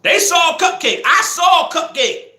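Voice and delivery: high, slow mocking singsong of the girls; mocking the girls' claim. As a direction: drag it out, mimicking their story.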